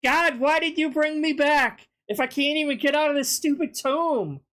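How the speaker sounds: a lightly voiced Jesus straining at the stone; mock Jesus groaning that the stone won't budge; whiny trapped Jesus. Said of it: "He's like".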